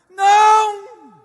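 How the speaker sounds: sharp, high, loud no; emphatic shout. Real, not acted. Pastor answering the objection, loud shout. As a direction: shut the idea down hard.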